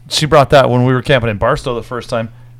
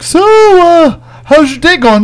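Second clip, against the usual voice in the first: much higher sing-song fake casual; high mock-innocent small talk; 13 semitones higher, 3 dB louder, slower than usual. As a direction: fish innocently for news. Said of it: "I'm like".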